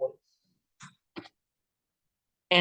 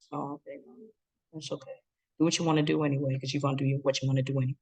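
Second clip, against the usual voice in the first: passive-aggressive; faster than usual. Shown as a demonstration. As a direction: sigh it out like a martyr. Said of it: "passive-aggressive communication".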